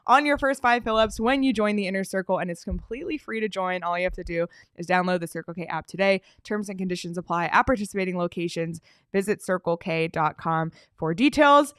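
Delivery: upbeat radio ad voice; ad read. Acted. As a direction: read it like a commercial. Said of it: "ad read at show start".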